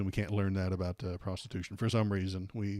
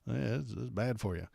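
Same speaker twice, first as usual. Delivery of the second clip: mock high-roading; 3 semitones higher than usual. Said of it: "They'll just high road each other".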